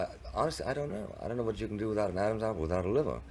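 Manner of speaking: high, fast, incredulous protest; exasperated disbelief. Real, not acted. Debater scoffs at his opponent's Adam's apple claim, high and fast. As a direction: throw up your hands at the absurd point. Mocking a far-fetched claim.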